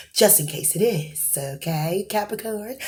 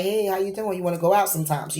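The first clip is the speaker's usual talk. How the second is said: soft, casual, quicker ask; laid back; 5 dB quieter, faster than usual. Acted. Relaxed caller asking someone out, laid back and softer. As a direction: toss it off easy and unbothered. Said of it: "more like a laid back".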